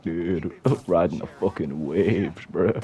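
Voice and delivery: slow American surfer-dude accent. Shown as a demonstration. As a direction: put on a drawling American bro accent. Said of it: "that's more American than whatever".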